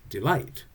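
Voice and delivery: "delight" with the second syllable stressed; slow "delight", weak then strong. Shown as a demonstration. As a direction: lean on the end of "delight". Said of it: "and the second one is".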